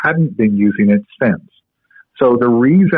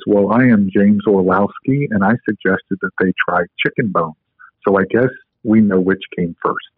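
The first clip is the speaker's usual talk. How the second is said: deep voice; 3 semitones lower than usual. Retold or imitated. Orlowski quizzing the young man about the raw egg, in a deep voice. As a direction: keep his voice low and measured as he asks. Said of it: "in a very deep voice".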